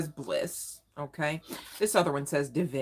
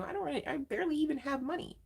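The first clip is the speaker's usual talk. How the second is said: higher, fast mock complaint from a viewer; 9 semitones higher, 6 dB quieter, faster than usual. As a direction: rattle it off like a broke listener protesting. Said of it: "Some of you are saying".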